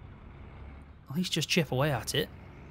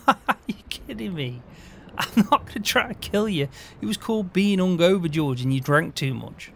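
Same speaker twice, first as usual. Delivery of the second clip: laughing protest; 4 semitones higher, 3 dB louder than usual. Acted.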